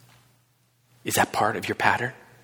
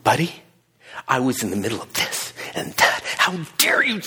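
mock angry outburst. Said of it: "would have been coming unglued".

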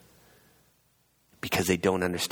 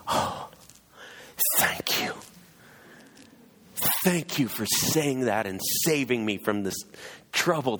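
breathy relief, then a higher, drawn-out thank-you; gushing mock gratitude; 4 semitones higher than usual. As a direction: play up being so relieved and grateful. Imagined grateful reply, then denied.

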